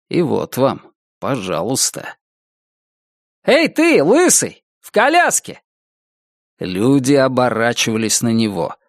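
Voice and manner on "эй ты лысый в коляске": metallic robot voice. Acted. Robot barker calls him out.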